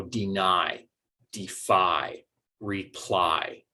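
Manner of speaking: slow model words, "deny", "defy", "reply", weight on the final long I; second-syllable stress. Shown as a demonstration. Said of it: "we are stressing that second syllable".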